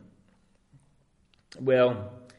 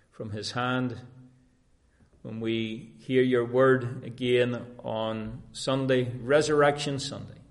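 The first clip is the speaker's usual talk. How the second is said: closing prayer. Acted. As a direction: pray it earnestly, addressing God. Closing prayer after "Let us pray.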